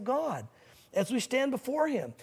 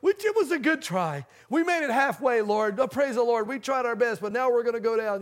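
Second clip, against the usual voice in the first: hammed-up despair; 5 dB louder than usual. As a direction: overplay the doomed sailor giving up. Preacher mocks his own panic.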